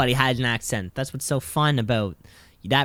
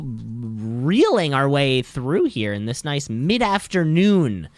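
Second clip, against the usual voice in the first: slow, dragged-out show intro, tailing off lower; low-energy hosting; 3 semitones lower, slower than usual. Real, not acted. Host filling time on an afternoon podcast, low energy. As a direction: drag through the intro as if running out of steam. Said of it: "High energy levels today".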